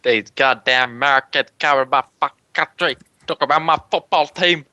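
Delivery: put-on thick Australian bogan accent; bogan rant. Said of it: "a bogan racist rant".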